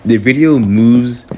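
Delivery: whispered, unvoiced and slow. Shown as a demonstration. Vlogger showing how his video sounds, whispered. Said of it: "I feel like the video".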